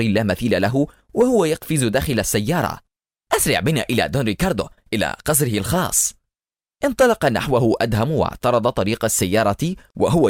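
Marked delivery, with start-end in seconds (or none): 3.4-6.1 rushed, fast panicky order; panicked order. Acted. Eliezer ordering his driver to flee, fast panicked. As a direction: gabble it out in a fright. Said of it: "صرخ بسائق سيارته في ذعر".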